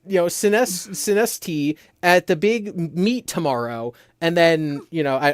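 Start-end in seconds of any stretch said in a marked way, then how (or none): 0.0-3.9 put-on high, eager anime girl; perky cartoon schoolgirl, higher. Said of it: "girl with green hair being like".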